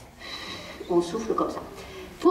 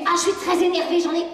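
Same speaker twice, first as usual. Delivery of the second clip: higher, mildly cross "je suis très énervé"; plain anger statement; 6 semitones higher, faster than usual. Shown as a demonstration. Parent to child, the version to avoid, mildly cross. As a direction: say it as a real complaint. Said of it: "au lieu de dire".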